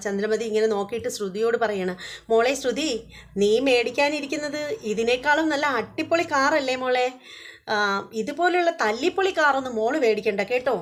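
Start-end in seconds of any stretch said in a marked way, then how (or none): 2.3-10.7 a touch of mock sneering, pitched higher; contemptuous mother-in-law. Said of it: "ചന്ദ്രമതിക്ക് ആകെ പുച്ഛം തോന്നുകയാണ്".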